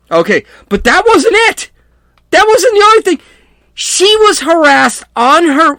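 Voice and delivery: rising to a real excited rant; getting worked up. Real, not acted. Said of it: "I'm sorry, I'm screaming".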